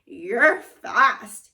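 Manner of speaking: bright loud exclamation; loud impressed kid; excited kid exclaiming. Acted. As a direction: blurt it out impressed. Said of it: "Huey told the wizard".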